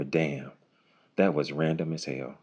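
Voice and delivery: low, soft understated reaction; impressed listener. Retold or imitated. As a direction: murmur it as you walk away. Voicing an impressed listener walking away.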